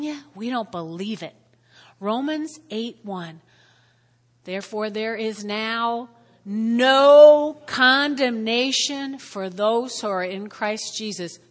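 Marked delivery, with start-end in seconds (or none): 4.4-11.4 slow verse, swelling hard on "no condemnation"; emphatic scripture reading. Shown as a demonstration.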